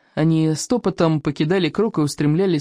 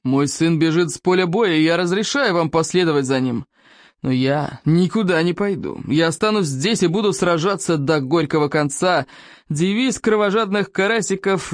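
restrained chiefly address; dignified. A narrator's reading. Chief addresses his tribe after his son, dignified. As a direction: hold the anger in and speak with great dignity. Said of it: "продолжил говорить с великим достоинством".

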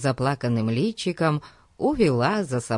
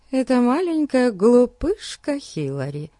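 put-on jealous girl; 9 semitones higher than usual. A narrator's reading. Betsy's jealous inner thoughts.

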